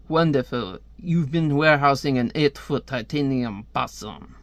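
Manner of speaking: hammed-up, badly done French accent. Comic reader voicing a colonel's exchange, bad French accent. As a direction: put on an amateurish French accent. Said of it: "me doing the bad French accent".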